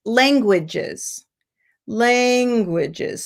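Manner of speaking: "languages" with a long LAN and two short syllables; stretched first syllable. Shown as a demonstration. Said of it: "you lengthen the syllable of la".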